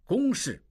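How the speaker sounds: 公事 pitched sharply high; stern stress on 公事; emphatic. Acted. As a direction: hit 公事 hard, high above the rest. Father rebukes son, insists on duty.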